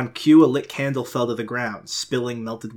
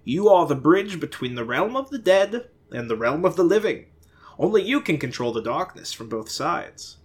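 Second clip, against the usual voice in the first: grand stagey pronouncement; lightly hammed-up oracle voice; theatrical; 6 semitones higher than usual. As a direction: proclaim it like a prophet on stage. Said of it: "with pure theatrical fashion".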